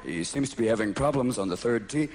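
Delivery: very low, murmured golf commentary; low commentator hush. Retold or imitated. Golf commentator describing the player, deep and hushed.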